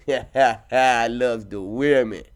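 slow, lightly voiced drawl; Cuddy voice. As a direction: stretch it out slowly. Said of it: "sounds a little bit like Cuddy".

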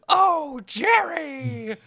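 high, loud mock cry; hammed-up cry; mock alien wail. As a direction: ham up a monster's grief. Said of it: "he's like".

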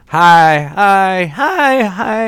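high, singsong string of hellos, imitated; mock a gleeful, repetitive greeting way up high; put-on high-pitched greeter; neighbor's cheerful greeting.

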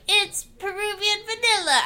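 hammed-up gruff agent; Tommy Lee Jones impression. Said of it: "and he's like".

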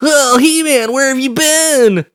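very high squeaky cartoon voice; cartoon sidekick. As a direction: pipe it up high like an excitable cartoon character. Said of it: "He just shows up".

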